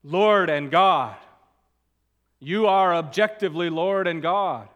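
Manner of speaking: detached answer. Shown as a demonstration. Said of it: "He didn't just answer him".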